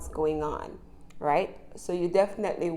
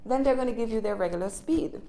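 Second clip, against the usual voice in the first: brisk, fast everyday pace; regular conversational speed. Shown as a demonstration. Teacher showing learners how fast people talk in everyday life, at quick regular speed. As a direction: speed up to natural talking pace. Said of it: "That was my regular speed for a second".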